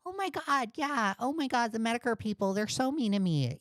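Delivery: mocking whiny impression. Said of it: "Doodle Tones is like".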